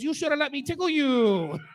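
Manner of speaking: lightly voiced high, loud puppet squeak; a hint of Elmo leering. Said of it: "in an Elmo voice goes".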